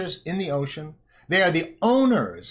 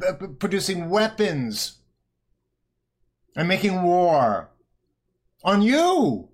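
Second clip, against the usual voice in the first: wag a finger and scold, higher; mock scolding; 3 semitones higher than usual. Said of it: "says Janet Yellen".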